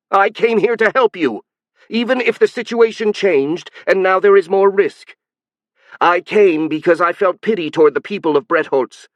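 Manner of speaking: high, loud inhuman shrill; emotional, shrill and alien. Acted. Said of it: "her voice started becoming shriller and alien".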